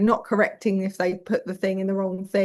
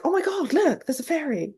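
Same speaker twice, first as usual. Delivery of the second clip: mock excitement; 7 semitones higher than usual. Shown as a demonstration. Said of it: "play with them".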